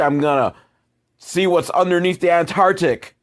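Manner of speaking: hammed-up mock quote; mocking repeat. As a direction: sneer at the line as a cold-woman jab. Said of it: "That frigid little bitch".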